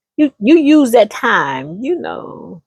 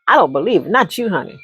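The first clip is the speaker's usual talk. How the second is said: disbelieving friend; 2 semitones lower, 3 dB quieter, faster than usual. Retold or imitated. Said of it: "So I said".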